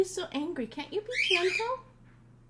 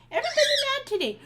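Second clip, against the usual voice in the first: laughing; 10 semitones higher, 5 dB louder, faster than usual. Real, not acted. Laughing at the angry parrot.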